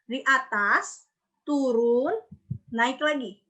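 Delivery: "turun" dipping then sweeping up; curving pitch. Shown as a demonstration. Teacher tracing the third tone, swooping pitch. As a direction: draw the curve with the voice on "atas, turun". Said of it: "Melengkung dia".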